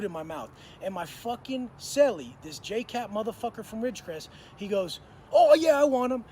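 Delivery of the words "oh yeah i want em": eager grab. Retold or imitated. Greedy cellmate grabbing the eggs.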